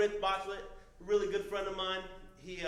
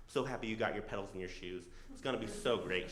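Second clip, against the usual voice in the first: a soft, syrupy wife, lightly voiced; sweet wife voice; 6 semitones lower, 5 dB quieter than usual. Husband mimics his wife's mock-sweet praise, softly. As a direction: coo it like a doting wife. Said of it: "She doesn't talk like that".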